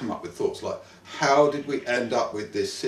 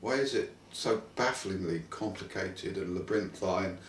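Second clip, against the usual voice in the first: put-on German accent; 4 dB quieter than usual. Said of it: "You keep slipping into the German accent".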